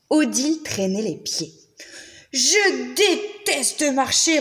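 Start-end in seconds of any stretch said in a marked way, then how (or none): 2.3-4.4 slow sulky grumble; grumbling. Acted. Odile dragging her feet on the way, slow grumble. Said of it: "ronchonnait-elle".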